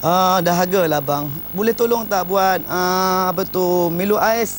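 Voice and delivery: slow, gentle husband asking his wife; a soft, unhurried plea for a drink; soft sweet request. Retold or imitated. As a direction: ask tenderly, like a loving new husband. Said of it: "dia berubahlah dulu lembut".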